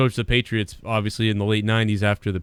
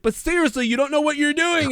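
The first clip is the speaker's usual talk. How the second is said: mock yelling trainer. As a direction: play the nagging trainer in a raised pitch. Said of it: "after the guy starts yelling at him".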